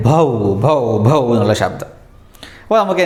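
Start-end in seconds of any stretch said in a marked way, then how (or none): 0.1-1.2 spaced bow-wow demonstration; teacher's simple mock barks; imitated dog bark. Shown as a demonstration. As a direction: mimic a dog barking. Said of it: "ഡോഗിൻ്റെ ശബ്ദമാണിത്".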